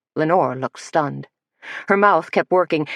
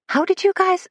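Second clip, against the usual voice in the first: sharply higher, startled question; stunned, breaking off mid-question. Acted. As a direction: caught off guard, voice jumps up.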